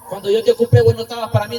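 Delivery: loud angry outburst at his mother; teenage son yelling at his mother who left him; angry shout. Retold or imitated. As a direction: throw the words at her, furious.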